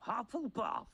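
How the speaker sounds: high, drawn-out shout of announcement; ringing, theatrical proclamation; hat's shout. A narrator's reading. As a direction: call it out high to the whole hall. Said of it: "shouted the hat".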